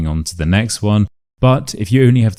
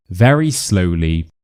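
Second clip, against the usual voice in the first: very slow. Shown as a demonstration. Demonstrates the slow exercise.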